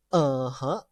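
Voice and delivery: "Uh-huh" going down, then up; agreeing, dipping "Uh-huh"; third tone. Shown as a demonstration. Teacher shows tone number three, dipping "Uh-huh". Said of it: "how we actually going to pronounce".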